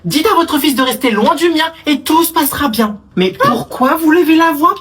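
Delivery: loud, high, heated yelling; heated shouting. Acted. Two mothers arguing over their sons, heated shouting. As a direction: tear into the other mother.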